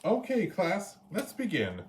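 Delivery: rally the class to begin; teacher calling the class. A narrator's reading.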